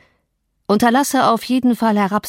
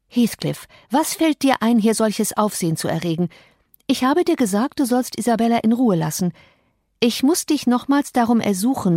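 Catherine rebuking; 3 semitones higher than usual. Acted. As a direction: warn him off, sharp but contained.

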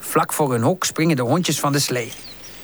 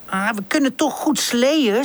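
brave; 6 semitones higher than usual. Acted. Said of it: "zegt hij dapper".

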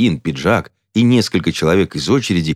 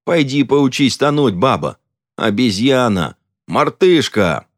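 hurled insults; 7 semitones higher, 3 dB louder, slower than usual. Acted. Quarrel, hurling insults.

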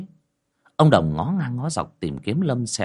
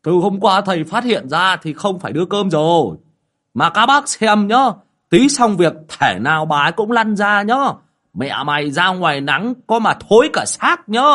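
high, loud boastful village voice; cocky bragging to the neighbours; showing off; 11 semitones higher, 7 dB louder than usual. Acted. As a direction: lord it over the crowd. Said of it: "dầu mỏ lên oai lắm".

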